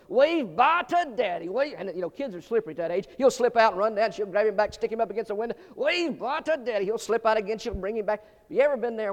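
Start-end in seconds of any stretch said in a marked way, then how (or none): 0.1-1.7 higher, slow sing-song coaxing; mother coaxing child. Retold or imitated. Mother on plane coaxing her boy, sing-song. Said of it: "and she goes". 5.8-6.9 higher, slow sing-song coaxing; mother coaxing child. Retold or imitated. Mother on plane coaxing her boy, sing-song. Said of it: "mother coaxing again".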